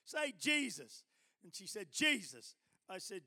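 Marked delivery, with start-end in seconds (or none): 0.0-1.0 slow, high, forceful prompt; loud urging. Retold or imitated. Preacher urging the nurse who whispered, loud and slow. 1.9-2.6 loud, firm JESUS; saying it aloud. Retold or imitated. Nurse obeying after being told she whispered, loud.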